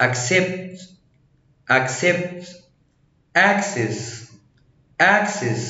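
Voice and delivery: "accident", "success", "accept", "access" with cc as k-s; k then s. Shown as a demonstration. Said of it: "الحرف الأولاني هيتنطق كي والحرف التاني هيتنطق".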